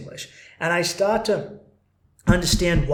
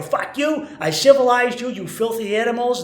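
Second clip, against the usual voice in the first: higher, louder indignant colonial shout; mock imperial rage; 6 semitones higher, 5 dB louder than usual. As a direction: snap back like an offended empire. Empire yells back at rebels.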